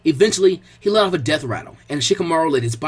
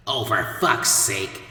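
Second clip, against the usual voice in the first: inner thought; 6 semitones lower, 3 dB quieter, much slower than usual. A narrator's reading. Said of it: "Kei thought to himself as he rolled his eyes".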